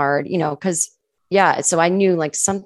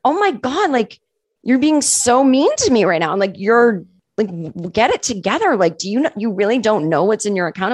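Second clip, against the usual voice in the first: raised, whiny offended voice; mock dramatic friend; 4 semitones higher than usual. Friend acting hurt at being called mean, raised and whiny. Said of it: "she was just like".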